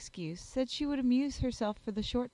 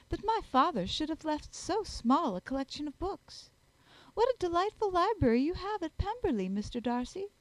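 high-pitched society lady; gushing Miss Bingley; 8 semitones higher than usual. Acted. Lady flattering Darcy about his family library, gushing. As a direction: pitch it up with affected wonder.

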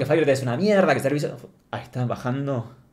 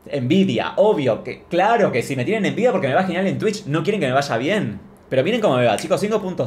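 excited; 3 semitones higher than usual. Real, not acted. Hyping himself up to chat.

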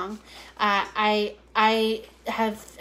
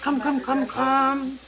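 singsong calling; much slower than usual. Real, not acted.

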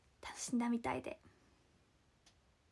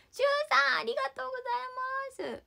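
much higher and louder; excited thanks; 13 semitones higher, 7 dB louder, much faster than usual. Real, not acted. Thanking a fan for two days of talks, excited. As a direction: squeal his name in delight.

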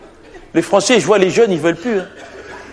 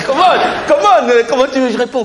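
exasperated; 5 semitones higher than usual. Acted. Candidate protests at incomprehensible question.

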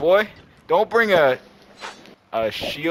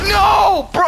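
high, loud complaint; loud protest; 7 dB louder than usual. Real, not acted. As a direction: cry out in protest. Kill stolen again.

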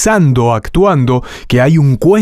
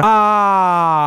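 voice pushed out; 8 semitones higher than usual. Shown as a demonstration. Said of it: "En vez de sacar demasiado la voz para afuera".

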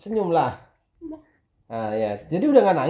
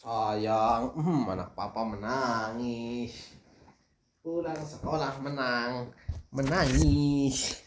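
cooing; 3 semitones lower, 5 dB quieter, much slower than usual. Real, not acted. Father cooing to crying daughter.

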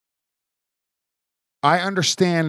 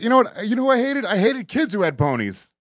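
imitating Jerry; 7 semitones higher than usual. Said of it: "he's like".

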